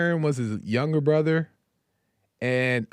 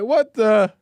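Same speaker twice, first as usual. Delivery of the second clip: sudden high, loud startled cry; 8 semitones higher, 7 dB louder than usual. Retold or imitated. Moses seeing his staff become a snake, startled high cry. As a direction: jump back in shock at the snake.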